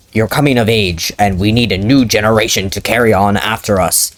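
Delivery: measured, serious fatherly tone; stoic father. Acted. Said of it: "getting into character".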